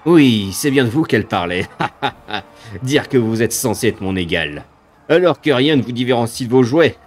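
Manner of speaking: sneering monster voice with cackles; mocking demon. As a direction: taunt them from above.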